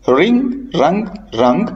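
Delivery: "रिंग, रंग, रंग" starting straight on the R; "रिंग, रंग, रंग" as a drill, W left silent. Shown as a demonstration. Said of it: "आपको W silent मिलेगा".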